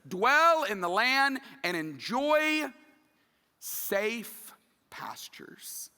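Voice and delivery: slow reading sinking to a whisper; hushed, savouring the promise; fading to whisper. Real, not acted. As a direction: let safe pastures trail off into a breath. Savouring the verse text.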